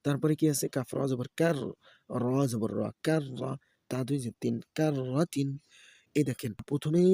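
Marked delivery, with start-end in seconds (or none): 0.8-5.5 rhythmic letter-by-letter chanting; Quran-primer teacher's recitation; spelling drill recitation. Shown as a demonstration. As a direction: spell each syllable, then blend them. Spells out Arabic syllables for learners.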